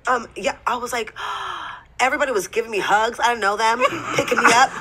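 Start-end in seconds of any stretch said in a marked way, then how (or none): 1.2-1.9 quick, voiceless intake of breath; amazed gasp. Acted. Guest recalls the championship celebration with an amazed gasp. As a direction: gasp as if overwhelmed.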